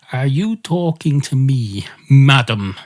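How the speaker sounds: slow, pointed challenge from a cat; lightly acted affronted cat; indignant cat. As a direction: slowly demand it, landing hard on madam. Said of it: "And the cat says".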